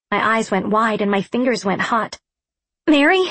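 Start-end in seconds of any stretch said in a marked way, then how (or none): 2.9-3.2 high, loud squawk with a questioning lift. A narrator's reading. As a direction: squawk the name out as an alarmed question. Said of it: "I squawked".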